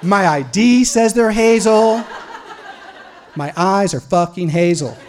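high, loud protest, slow and building; exasperated insistence. Retold or imitated. Suspect insists on his eye color to officer, exasperated protest.

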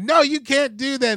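high, loud imitated objection; mock old lady. Old lady objecting in the store, high mock voice.

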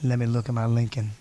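low-pitched car-ad actor; low, laid-back celebrity imitation; Matthew McConaughey. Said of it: "Matthew McConaughey".

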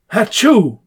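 a hammed-up sneeze, Hatchoo; a mock sneeze in the joke; fake sneeze. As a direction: sneeze the word Hatchoo out loud. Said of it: "Bless you".

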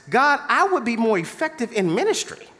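lightly voiced wheedling prayer; bargaining prayer. Believer bargaining with God, mild wheedling. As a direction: coax God into a yes. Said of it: "some of us have prayed like this".

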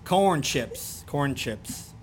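Baltimore accent on "Corn chips". Shown as a demonstration. Repeating it for the co-host who remarked on it, Baltimore accent. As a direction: lightly lean into a Baltimore accent. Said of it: "With my strong accent from Baltimore".

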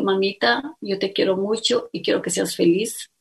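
softly retold words said close to the ear; whispered in ear. Daughter hugging mother, telling her softly to go. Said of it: "me dijo al oído".

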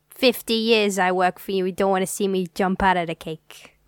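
lightly voiced mob boss, a hint of menace; a touch of gangster, friendly threat; mobster voice. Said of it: "I love your mobster voice".

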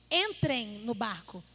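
slow, firm command to get in the boat; Jesus ordering the disciples into the boat, firmly. Retold or imitated. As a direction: lay it down as an order, not an invitation. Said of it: "Foi uma ordem".

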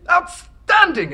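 high, loud and slow gush; overdone praise. Acted. Official gushing over a simple answer, slow and high. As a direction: stretch out the praise.

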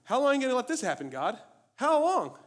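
very high, loud, fast lament; anguished cry. Retold or imitated. Psalmist to God, very high loud anguished cry. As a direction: wail at God, breaking upward. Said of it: "It's like".

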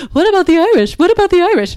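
high, loud sappy mock queen voice; mocking Victoria. Mocking TV Victoria's fake concern, high and loud. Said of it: "and she's like".

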